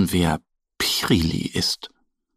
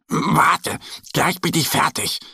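higher hurried call; eager bear; 7 semitones higher than usual. Acted. Mo runs to get his costume, eager call. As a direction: rush off eagerly. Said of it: "sagt Mo".

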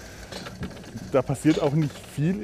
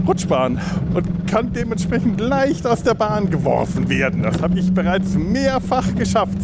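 excited; 6 semitones higher than usual. Real, not acted. Explaining while riding down.

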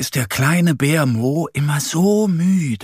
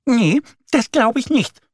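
much higher, louder indignant protest; annoyed duck; 11 semitones higher, 4 dB louder than usual. Acted. Annie annoyed at Mo's boast, high indignant duck. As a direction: scoff at his claim, up high. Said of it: "Sie ärgert sich aber auch".

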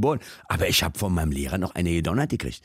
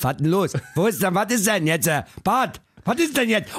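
annoyed Berliner; 10 semitones higher than usual. Retold or imitated. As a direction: snap at the caller like a grumpy repairman. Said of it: "Auch immer, immer genervt".

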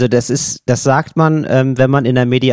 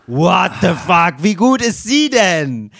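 amazed disbelief; 3 semitones higher, slower than usual. Retold or imitated. Parties amazed at mediator.

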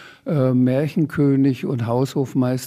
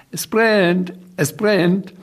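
Sams calling out gleefully; mock shout; 5 semitones higher, slower than usual. Sams alarms the shop, raised gleeful cry. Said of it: "schrie der Sams laut".

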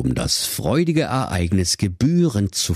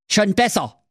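Hexenstimme; 13 semitones higher than usual. Acted. Hexe spricht.

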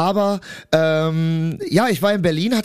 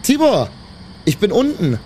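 calling out; 3 semitones higher than usual. Acted. Calling up to friend's flat.

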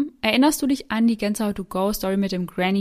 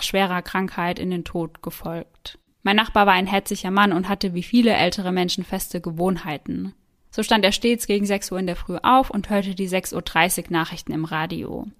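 story narration. Acted. Reads listener's creepy story aloud.

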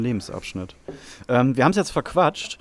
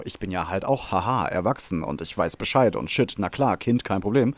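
lower, smug mock of his younger self; cocky young know-it-all; 5 semitones lower than usual. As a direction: play the cocky twenty-one-year-old. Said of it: "mit einundzwanzig hab ich gedacht". (großspurig besserwisserisch, tiefer)

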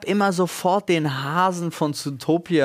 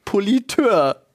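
laughing disbelief; 7 semitones higher, slower than usual. Real, not acted. Reads funny male term, laughs.

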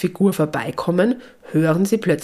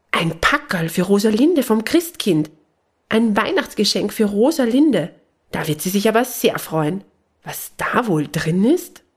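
higher, delighted calling out over a parcel; thrilled, a bit breathless with joy; excited call; 4 semitones higher than usual. Acted. Woman finds a parcel from the Christkind, excitedly calling. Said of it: "Sie ruft aufgeregt".

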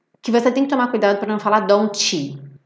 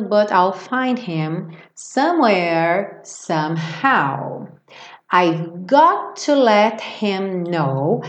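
slow British English reading; British style; much slower than usual. Shown as a demonstration. Teacher imitates the British singer slowly. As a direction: read but I'll find him in a British accent. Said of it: "Como ela é britânica".

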